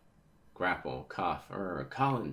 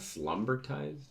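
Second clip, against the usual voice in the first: slumbertized repeated higher, as a question; real puzzled, higher-pitched slumbertized; puzzled double-check; 5 semitones higher, slower than usual. Real, not acted. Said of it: "Is that what it says?".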